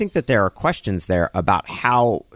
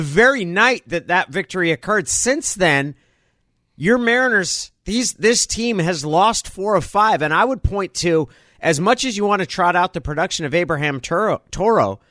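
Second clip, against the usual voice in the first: raised, impassioned closing argument; courtroom prosecutor; 5 semitones higher than usual. Pretend. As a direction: argue like a prosecutor to the jury.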